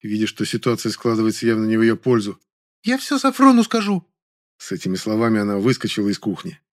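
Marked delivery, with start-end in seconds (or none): 2.8-4.1 much higher, shrill screech; screeching at the neighbours, losing the argument. A narrator's reading. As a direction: screech it defensively. Zayka screeching threat.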